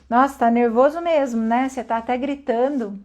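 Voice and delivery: calm, unruffled reply to a shouter; calma encenada. Acted. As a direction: stay composed and defuse it. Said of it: "Calma, respira". (calmo, sem entrar na briga)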